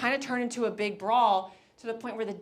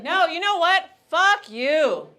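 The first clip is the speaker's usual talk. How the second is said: loud, higher angry snap; drunk sister snapping; 7 semitones higher, 9 dB louder, slower than usual. Retold or imitated. Drunk sister to pushy guy, loud angry snap. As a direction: tell him off, fed up. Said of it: "She was like".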